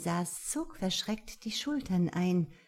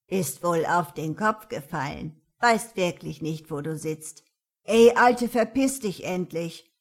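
put-on grumbling old lady building to a yell; scold, then bark at him; tough old woman; 7 dB louder than usual. Old woman fires back, builds.

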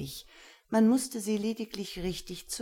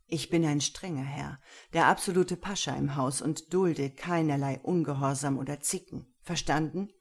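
stern master. Acted. Gero sets his rules for Lena, stern and measured.

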